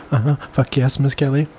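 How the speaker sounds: very high whimpered answer; whimpering. A narrator's reading. Narrator voicing a character answering Miss Kelly, whimpering. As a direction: pitch it far up into a whimper. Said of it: "Bailey whimpered".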